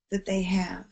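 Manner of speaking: soft, breathy hush on the last words; whispered. Real, not acted. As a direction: let it fall to a whisper. Emotional close about kids' anchor.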